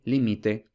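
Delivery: "límite" said as li-MI-te, stress on the middle; middle-syllable stress. Shown as a demonstration. Teacher showing Spanish stress contrast, "límite" as li-MI-te. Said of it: "por ejemplo".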